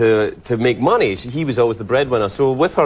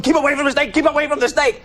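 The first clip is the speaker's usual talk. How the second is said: mock warning; 12 semitones higher, faster than usual. Imitating backstage crew warning.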